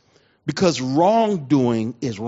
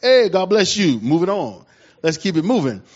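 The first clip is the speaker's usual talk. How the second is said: nervous peacemaker; 2 semitones higher, 3 dB louder than usual. Retold or imitated. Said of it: "I'm on my".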